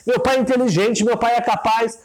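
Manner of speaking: put-on high, protesting child's voice; child defending father. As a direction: insist hard that dad isn't stupid.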